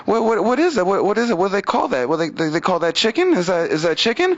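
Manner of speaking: imitating a baffled girlfriend, stumbling over questions; mock wonder at a plate of food; feigned cluelessness. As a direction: act like you've never seen this food. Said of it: "she act like she never saw my food before".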